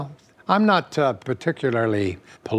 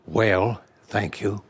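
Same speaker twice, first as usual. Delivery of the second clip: Ronald Reagan; slower than usual. Acted. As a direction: answer as the impersonated president, easing off at the end. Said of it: "my favorite politician was always Ronald Reagan".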